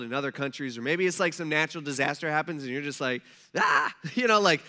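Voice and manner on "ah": short, louder "ah" of alarm; mock panicked yell. News watcher reacting to a disaster, mock panicked yell. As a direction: imitate someone freaking out. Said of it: "you start kinda freaking out".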